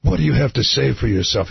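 put-on scolding priest, lightly accented Irish; Irish accent sounding Scottish. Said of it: "your Irish accent is Scottish".

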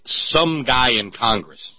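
drawn out and slow, dim-witted Gump voice; slow Forrest Gump drawl. Retold or imitated. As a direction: stretch every word like Forrest Gump. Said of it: "Notice how he says".

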